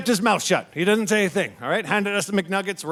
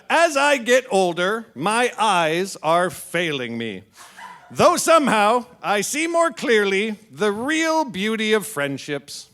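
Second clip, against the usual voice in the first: touching heartfelt delivery; tender reading; slower than usual. Retold or imitated. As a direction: read it gently like a sweet old aunt. Reading aunt's sweet post.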